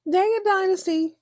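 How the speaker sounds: mock dismay. Real, not acted. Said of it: "I was not prepared for this today".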